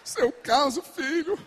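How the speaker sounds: a hint of a patient, mocking Father; lightly voiced indulgent God; mock God listening. God humors the whining child, mock patient. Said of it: "você acha que Deus tá como lá?".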